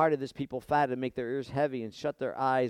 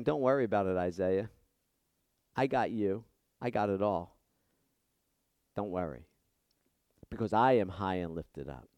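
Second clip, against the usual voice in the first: reassuring God; 4 semitones lower than usual. Acted. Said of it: "But God's saying".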